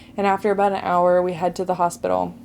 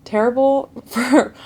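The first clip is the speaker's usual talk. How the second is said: laughing emphasis; 5 semitones higher, 4 dB louder than usual. Real, not acted. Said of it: "and that was terrible".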